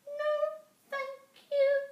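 very high, loud frightened squeak; a scared mouse squeaking no to the bear. A narrator's reading. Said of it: "squeaked Little Mouse".

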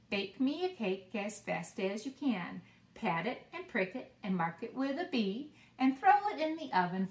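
put-on sing-song rhyme for kids; reading a nursery rhyme. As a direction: bounce through it like a children's rhyme. Reads rhyme with hand motions.

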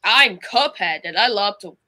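lightly put-on Australian accent. Shown as a demonstration. Cuphead greeting a mate, lightly Australian accent. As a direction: play an Aussie, with a hint of the accent. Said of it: "I wonder if my Australian accent".

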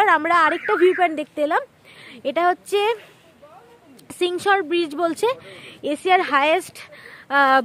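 loud. Real, not acted. Outdoor vlog over wind.

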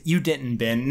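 waving off Ben a second time; a bored brush-off; dismissive. Retold or imitated. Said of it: "very dismissive".

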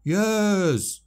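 loud answering cry; chorus shout. A narrator's reading. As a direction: shout back as one. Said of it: "a chorus answered now".

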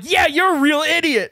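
imitating an angry player, high and loud; high, loud mock insult; retold heckle. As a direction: jeer it out loudly. Acted insult from another player.

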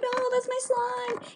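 high, drawn-out mock wail; mock protest. Student calling out to the teacher who has the slime, high drawn-out protest. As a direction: stretch out a high-pitched protest.

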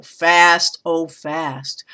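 both "fast"s stressed around a lighter "oh". Shown as a demonstration. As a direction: lean hard on each "fast". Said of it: "Within between the two fasts".

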